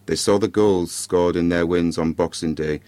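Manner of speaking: measured storytelling with dramatic pauses; story narration. A narrator's reading. Podcaster reads a Christmas ghost story to listeners, measured narration. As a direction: read it out in short, spaced phrases.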